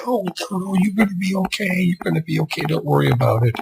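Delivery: high, fussing reassurance; calm the child, all in a rush; soothing parent. Acted. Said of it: "come running back in again and say".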